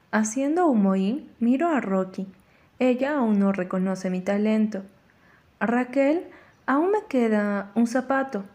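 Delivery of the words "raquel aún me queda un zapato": mild mock yell with a threat; calling out. Mother calling up the stairs to her daughter, mild yell. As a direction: call up the stairs, lightly voiced mom. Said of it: "Mamá me grita desde la escalera".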